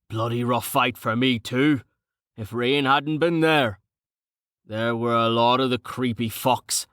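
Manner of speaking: lightly voiced burly fighter, thinking aloud; a hint of a rough brawler musing; boisterous, rough-spoken Carten, sobered.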